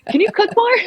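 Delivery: high, mock-blunt voice for the husband. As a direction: drop the politeness and say it straight. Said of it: "polite way of saying".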